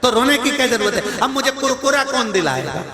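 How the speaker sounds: put-on high childish whine; a hint of a small crying child; lightly voiced little grandson. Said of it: "वो रो रहा था". (रोता छोटा पोता, हल्की सी बच्चे जैसी ऊँची आवाज़)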